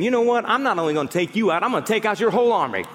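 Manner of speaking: fast, swaggering boast; cocky trash talk. Retold or imitated. David boasting to Goliath he'll take his army. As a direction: rattle off the threat with swagger. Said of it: "David was saying".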